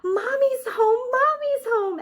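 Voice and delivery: very high, loud happy squeals; little bunnies cheering for mom; excited bunnies. Acted. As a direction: cry out with joy. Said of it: "and Long Ears cried".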